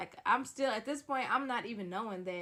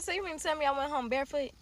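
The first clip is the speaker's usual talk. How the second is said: higher, louder, fast indignant comeback; indignant retort; 5 semitones higher, 6 dB louder, faster than usual. Retold or imitated. To her cheating boyfriend, an indignant louder retort. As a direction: fire it back in disbelief. Angry retort about the shoes.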